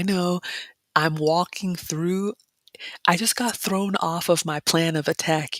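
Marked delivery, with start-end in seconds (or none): 3.1-5.6 whispered aside. Real, not acted. Vlogger confiding to her viewers about her plan, whispered. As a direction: let it slip out in a whisper.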